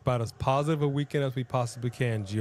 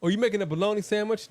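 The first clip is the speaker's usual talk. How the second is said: bougie voice; 7 semitones higher, much faster than usual. Retold or imitated. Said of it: "I'm being all bougie".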